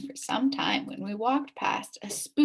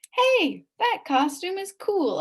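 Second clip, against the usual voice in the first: higher, louder delighted exclamation; impressed kid; 9 semitones higher, 4 dB louder, slower than usual. Acted. Narrator complimenting Billy's costume, excited. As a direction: gush over the cool costume.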